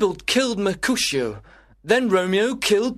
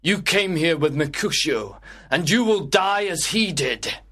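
raised-pitch, menacing challenge; angry threat; 6 semitones higher than usual. Acted. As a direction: threaten your enemy with death. Tybalt threatens Romeo before the fight.

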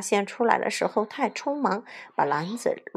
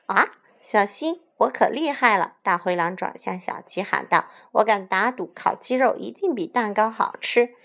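boastful shout; 3 semitones higher, 4 dB louder than usual. Acted. (大声逞威风地喊)

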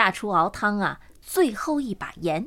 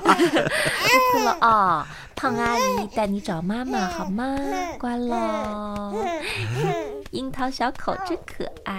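put-on slow, lulling baby talk; tender cooing; slower than usual. Auntie promising a foundling to find mama, soothing. Lulls the baby in her arms.

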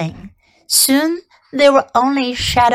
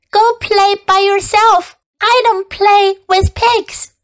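haughty lamb voice; 10 semitones higher, 3 dB louder than usual. Acted.

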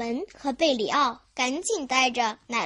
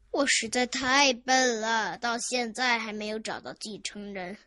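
tearful lament; 4 semitones lower than usual. Acted. Grandpa blames himself for no heir, tearful. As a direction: lament your failure, sinking lower. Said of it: "故事爷爷嚎啕大哭起来".

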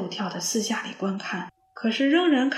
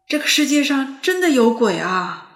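amazed; 3 semitones higher, 7 dB louder than usual. A narrator's reading. Pangpang amazed at ghost story.

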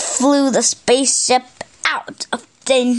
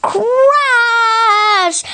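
high, stretched-out sound word; dramatic crash word; 9 semitones higher, 3 dB louder than usual. A narrator's reading. Narrator as the fireball hits them, high dramatic crash. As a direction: draw it out like the impact itself.

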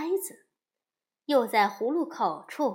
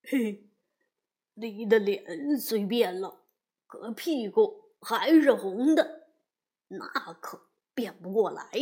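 teasing laugh; 2 semitones lower than usual. A narrator's reading. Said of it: "八戒也笑着说".

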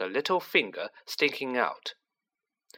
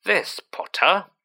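loud, slow, higher-pitched demand; 7 semitones higher, 5 dB louder, slower than usual. A narrator's reading. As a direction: raise your voice and lean slowly on each word. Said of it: "said Aunt March loudly".

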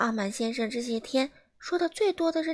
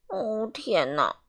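slow dismayed sigh; much slower than usual. Acted. Mr Rude shrinks again.

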